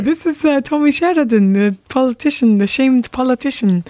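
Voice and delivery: light put-on Scottish accent, prank call; a mild stab at a Scottish politician's accent; Tommy Sheridan Scottish accent. Prank-calling Johnny as a Scottish politician, mild put-on Scottish accent. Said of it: "I'm gonna pretend to be Tommy Sheridan".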